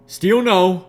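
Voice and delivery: decisive refusal. A narrator's reading. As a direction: settle it firmly. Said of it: "she decided".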